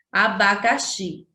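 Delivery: abacaxi with weight on the final xi; teacher demonstrating the stressed xi in abacaxi; stress on final syllable. Shown as a demonstration. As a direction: lean on the last syllable, xi, in abacaxi. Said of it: "a gente pronuncia com mais ênfase".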